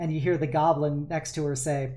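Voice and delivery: ordinary talk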